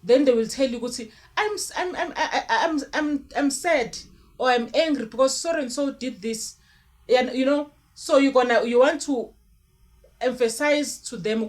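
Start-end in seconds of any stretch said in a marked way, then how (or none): 0.8-6.6 higher, stammering mock child with a laugh; lightly voiced upset child. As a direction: play the flustered child tripping over words. Child answering, voiced by speaker.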